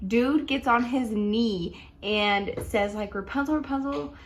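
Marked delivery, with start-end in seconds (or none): 3.1-4.1 cute serenade. Retold or imitated. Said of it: "he says it so cute".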